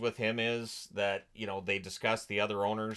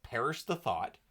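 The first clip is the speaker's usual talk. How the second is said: deadpan it; lightly sarcastic mutter; dry sarcasm; 3 dB quieter than usual. Retold or imitated. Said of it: "there's so much sarcasm".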